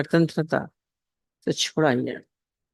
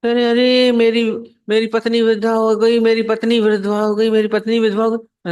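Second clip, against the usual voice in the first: higher, louder hammed-up lament; mock wailing; 4 semitones higher, 3 dB louder than usual. Simple man telling the sadhu his wife is widowed, mock wailing. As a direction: wail it out like a fool who believes the lie. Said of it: "और तेज तेज चिल्ला रहा था, रो रहा था".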